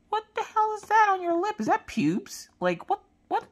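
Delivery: high-pitched squeal of disbelief; flabbergasted parent. Retold or imitated. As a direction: blurt it out in mock shock. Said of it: "I didn't know what to say to him".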